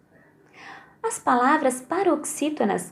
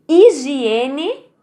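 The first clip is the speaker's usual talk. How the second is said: Higiene. with e louder; stress on E; 3 semitones higher, 5 dB louder than usual. Shown as a demonstration. Teacher to pupils, Higiene. with e stressed. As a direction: lean on e in Higiene. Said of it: "No e".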